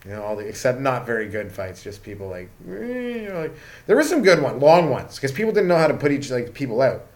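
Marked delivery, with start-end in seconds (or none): 2.7-2.7 high, soft mock whine; silly high imitated grunt; mimicked struggle noise. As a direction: imitate feeble fighters with a squeal. Mimicking clumsy fighters.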